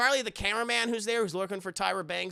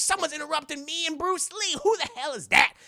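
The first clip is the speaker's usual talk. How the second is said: annoyed rapper; 9 semitones higher, 4 dB louder than usual. Retold or imitated.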